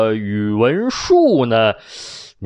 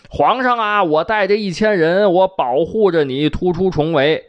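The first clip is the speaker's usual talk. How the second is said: bravado with a higher-pitched opening; bold, heroic; 6 semitones higher than usual. Acted. General pledging to break the emperor out of encirclement, boldly. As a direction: declare it with hearty gallantry. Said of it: "这听着很豪气啊".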